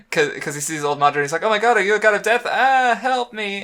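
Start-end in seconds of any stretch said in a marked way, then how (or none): 1.4-3.6 high, loud, fast mock panic; hammed-up cry for help, pitched way up; goofy freak-out. Goofy Obito sees old Madara from his bed, mock freak-out. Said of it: "freaking out because he's".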